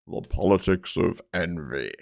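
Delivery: lightly voiced smug critic; a hint of a dismissive pundit; mock retort. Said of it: "what do you get back?".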